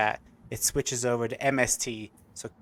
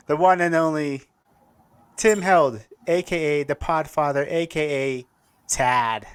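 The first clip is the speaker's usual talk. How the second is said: hype intro; 3 semitones higher, 5 dB louder than usual. Acted. Announcing the guest.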